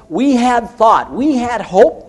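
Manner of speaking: high, loud cry of lost hope; disappointed disciples. Retold or imitated. Disciples' lament on Emmaus road.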